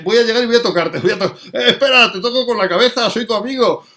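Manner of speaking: mock doggy greeting, half laughing; playful dog voice with laughter. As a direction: giggle through it as a clumsy friendly dog. Eager blind dog voiced laughing.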